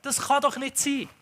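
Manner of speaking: imitating his daughter's frustrated outburst; frustrated little child. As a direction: whine like a small daughter who won't accept it. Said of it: "Kinder haben das so schonungslos".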